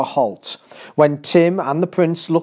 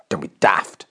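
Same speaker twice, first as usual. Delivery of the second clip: put-on hushed boy whisper; 6 semitones lower than usual. A narrator's reading. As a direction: whisper it dismissively. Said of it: "said Tim".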